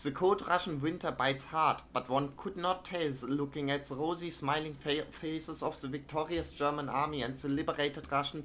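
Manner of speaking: news read. Acted. Streamer reads a German newspaper like a newsreader. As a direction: read it like an old wartime newsreel. Reading in-game newspaper aloud.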